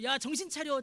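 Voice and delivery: acted impatient nudge; urging. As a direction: prod them to shape up. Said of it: "재촉도 하지 않으시고".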